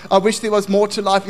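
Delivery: loud inner complaint. Acted. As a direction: say it out strongly. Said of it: "is such a loud voice".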